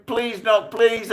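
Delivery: high-pitched, drawn-out mimicked plea; desperate begging. Fleeing crew pleading with the gunman, begging. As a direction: imitate men begging in panic.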